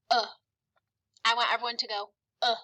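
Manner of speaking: short, relaxed "Uh"; schwa sound. Shown as a demonstration. Teacher modelling schwa for the class, short uh. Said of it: "sounds like this".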